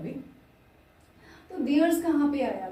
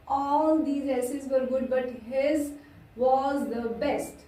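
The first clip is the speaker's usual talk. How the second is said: slow dictation; much slower than usual. Shown as a demonstration. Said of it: "slow dictation of example".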